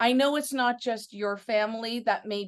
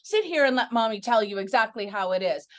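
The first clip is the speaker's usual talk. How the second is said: gentle mother; 2 semitones lower than usual. Retold or imitated. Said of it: "they could have dealt with it".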